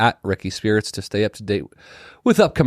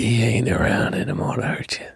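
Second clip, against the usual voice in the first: whispered comfort. Pretend. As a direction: whisper it like a gentle therapist. Whispered mock therapy.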